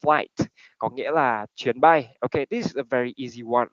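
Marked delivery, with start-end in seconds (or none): 0.0-0.5 "Flight" with a light pop on the T; lightly released T. Shown as a demonstration. Teacher shows the class the ending, T lightly released. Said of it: "chúng ta hơi bật nhẹ ra một tí".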